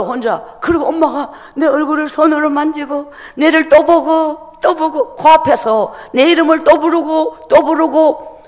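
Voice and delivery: ordinary delivery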